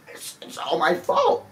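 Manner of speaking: high breathy laugh-cry; mock sob. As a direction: squeak it out, hammed-up. Breathy falsetto self-blame.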